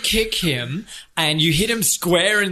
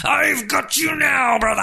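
gloating wrestler; 10 semitones higher than usual. Acted. The Battletoad pinning Joe, shouting in triumph. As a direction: gloat it out big. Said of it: "The Battletoad grabs it".

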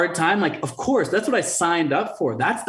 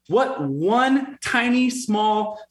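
slow self-question; 5 semitones higher than usual. Shown as a demonstration. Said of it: "just ask yourself every day".

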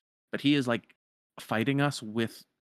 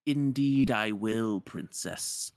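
dark lord. Retold or imitated. Jafar voiced taunting princess.

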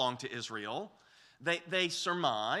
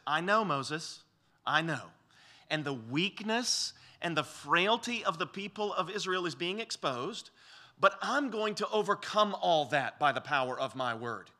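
reassuring. Retold or imitated. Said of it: "he would say something like this".

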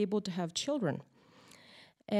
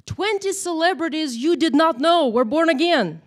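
headline read; 6 semitones higher, 10 dB louder than usual. Retold or imitated. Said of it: "headlines like".

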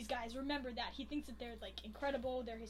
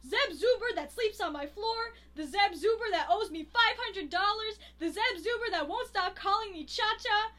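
1 acted bartender rant; 5 semitones higher, 4 dB louder than usual. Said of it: "and she's like".

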